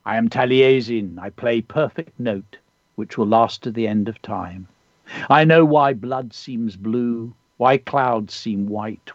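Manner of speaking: measured, unhurried recitation with pauses; poem reading. Acted. Poet reading a pupil's poem on air, measured recitation. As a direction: read the poem like an ancient bard speaking. Reads a child's poem aloud.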